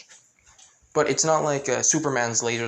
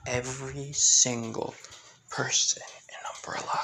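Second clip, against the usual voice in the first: hushed vow; 2 semitones lower, 5 dB quieter than usual. Acted. Hushed vengeful figure's confession.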